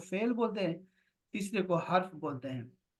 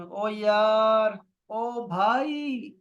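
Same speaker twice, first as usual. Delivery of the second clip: casual call to a friend; 3 semitones higher, 4 dB louder, much slower than usual. Shown as a demonstration. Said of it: "ایسے کہتے ہیں نا".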